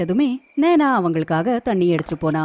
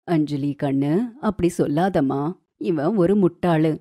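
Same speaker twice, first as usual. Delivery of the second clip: a touch lower, soothing mother-in-law; coaxing; 3 semitones lower than usual. Acted. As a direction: gently placate the favourite daughter-in-law. Mother-in-law coaxes favourite. (லேசாகக் கொஞ்சி சமாதானம்)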